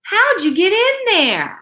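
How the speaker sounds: lightly gruffed-up big dog; tough dog voice. Acted. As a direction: play Mike caught off guard. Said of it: "said Mike".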